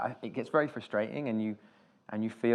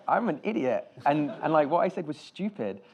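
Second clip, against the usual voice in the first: laughing self-mockery; 6 semitones higher, 5 dB louder than usual. Self-mocking retold reply.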